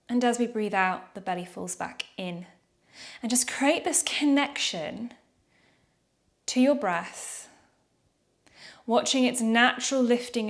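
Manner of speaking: calm yoga breath guidance with long pauses; guided breathing meditation. Real, not acted. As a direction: gently lead them through noticing the breath, leaving room to breathe.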